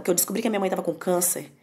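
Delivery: ordinary talk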